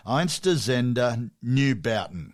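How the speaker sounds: very slow, broad Australian accent on the band name. Shown as a demonstration. Host repeats the German band name in an Australian accent. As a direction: say the band name as a flat Aussie would. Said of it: "I'll do an Australian accent".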